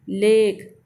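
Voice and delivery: "लेक" blended as one syllable, ending on k; silent final e. Shown as a demonstration. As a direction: blend "लेक" firmly and leave the e unsounded. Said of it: "ई जो है वो छुप गया है".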